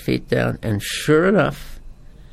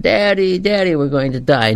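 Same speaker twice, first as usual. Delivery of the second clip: put-on frightened child; 5 semitones higher than usual. Frightened kids in storm water.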